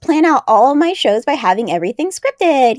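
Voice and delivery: put-on high, bubbly Valley Girl. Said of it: "such a Valley Girl voice".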